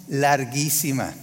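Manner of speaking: larguísima said slowly and stretched; drawn-out larguísima. Shown as a demonstration. Preacher tells the congregation how endless the cold night felt, stretching larguísima. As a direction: let larguísima drag on slowly, like the long night. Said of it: "stretches the word for emphasis".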